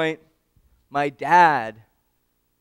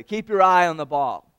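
dad yelling; 3 semitones higher, 9 dB louder than usual. Retold or imitated. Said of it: "my dad yelled out at me".

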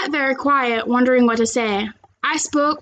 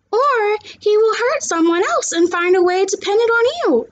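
Kayla; 8 semitones higher than usual. Acted. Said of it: "Kayla added".

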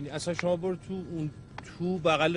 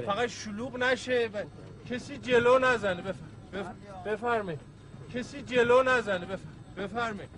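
calling out to crowd; 5 semitones higher than usual. Acted. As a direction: shout کسی جلو نزنه across the line, leaning on جلو. Captain calls orders to crowding passengers.

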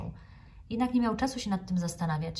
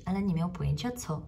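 ordinary delivery, nothing marked

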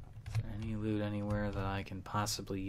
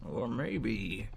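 Deckard Cain voice; slower than usual. Retold or imitated. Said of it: "the Deckard Cain voice".

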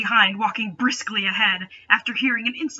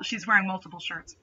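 ordinary delivery

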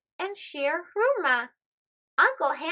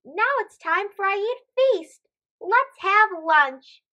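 high, loud and slowed cheer; drawn-out happy shout; excited exclaim; 5 semitones higher, 5 dB louder than usual. Acted. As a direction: call it out like a hungry kid. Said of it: "they exclaim".

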